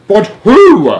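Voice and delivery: high, loud demand; yelling. A narrator's reading. President demanding answers by radio, yelling. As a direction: yell the question. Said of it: "yelled the president".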